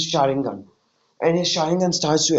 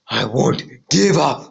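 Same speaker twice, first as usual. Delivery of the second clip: slow, steady, resolute; determined vow; slower than usual. Retold or imitated. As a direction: say it like a stubborn promise. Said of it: "He says in this, in exactly this tone".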